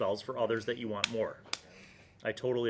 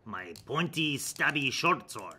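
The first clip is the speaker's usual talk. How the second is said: loud, higher, slow brutish warrior; barbarian; 4 semitones higher, 8 dB louder, slower than usual. Shown as a demonstration. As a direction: bellow like a dim barbarian brute. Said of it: "Give me, like, a barbarian voice".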